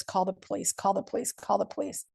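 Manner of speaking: choked, breathless repeated plea, last one barely voiced; mild retold breathless gasp. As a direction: gasp it out between coughs like you can't breathe. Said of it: "all I could try to get out is".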